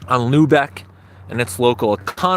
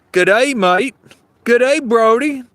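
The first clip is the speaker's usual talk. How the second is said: excited greeting; 8 semitones higher, 4 dB louder, slower than usual. Real, not acted. Greeting a viewer named Brody.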